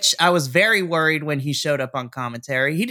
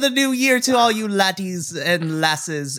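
attempted Irish accent. Greeting podcast listeners in an attempted Irish accent. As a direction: try on a lilting Irish accent, not quite landing it. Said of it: "That was, that was almost an Irish".

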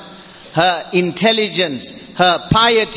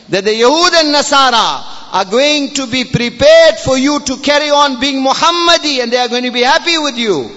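higher, emphatic sermon delivery; forceful preaching; 5 semitones higher than usual. Real, not acted. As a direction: drive the warning home to the congregation.

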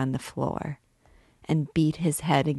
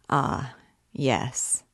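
strange gentleness. Acted. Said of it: "with strange gentleness".

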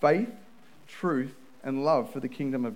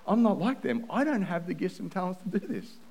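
freaking out; 3 semitones higher than usual. Retold or imitated. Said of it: "I was freaking out because I'm like".

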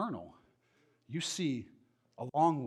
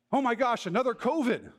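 mock panic; 5 semitones higher than usual. Mocking panicked headline reader.

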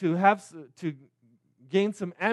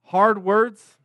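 earnest prayer. Acted. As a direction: pray humbly before the sermon. Pastor opens with a prayer.

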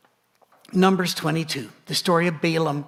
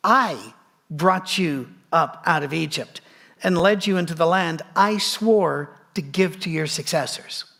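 voice of the Lord. Retold or imitated. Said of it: "The angel of the Lord ... said".

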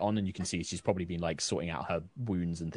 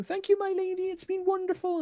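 much higher gushing thank-you voice; high grateful townsperson. Acted. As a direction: gush thanks up high like a humble villager.

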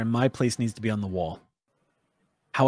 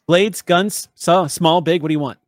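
laughing through it, louder; 5 semitones higher, 6 dB louder than usual. Real, not acted. Game master laughing while Tara offers weapons.

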